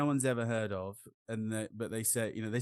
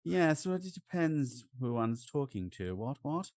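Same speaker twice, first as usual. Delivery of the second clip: mock posh English; 3 semitones higher than usual. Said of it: "pinky finger right up".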